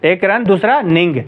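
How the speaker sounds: "रन" and "निंग" as two separate beats; syllable breakdown. Shown as a demonstration. Teacher splitting running for students, "रन" apart from "निंग". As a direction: count off रन, then निंग. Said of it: "रनिंग में दो syllables".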